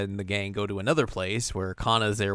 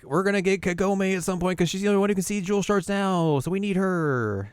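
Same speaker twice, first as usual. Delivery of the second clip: villain threat; 9 semitones higher than usual. Retold or imitated. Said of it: "not before they're like".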